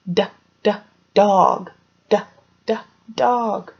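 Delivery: crisp "d" then "dog", repeated; d sound drill. Shown as a demonstration. Teacher drilling kids on "d, d, dog". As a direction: tap out "d, d, dog" for the class. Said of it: "Can you guys do that with me?".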